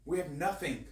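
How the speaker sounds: earnest spoken prayer. Real, not acted. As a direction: pray it sincerely. Prays aloud to the Lord.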